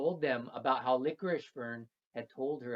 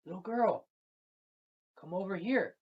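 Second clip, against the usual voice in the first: plant spirit calling; 6 semitones higher than usual. Acted. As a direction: beckon the girl from the woods. Fern voice calls the girl.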